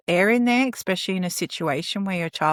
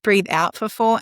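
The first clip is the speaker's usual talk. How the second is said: slow, even counting of each four; guiding a box breath slowly; 3 semitones higher, slower than usual. Shown as a demonstration. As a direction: pace out "for four" deliberately. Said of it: "another thing called box breathing".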